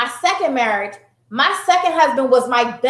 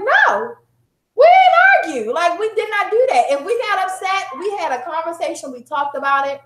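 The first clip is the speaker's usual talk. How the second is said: insistent; 5 semitones higher than usual. Retold or imitated. Answering therapist in disbelief.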